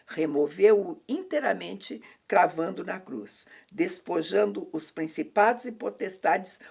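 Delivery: slow, measured reading from the Bible; scripture reading. Acted. Speaker reading Colossians aloud to the co-host, slow solemn recitation. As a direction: read the verse aloud deliberately, phrase by phrase.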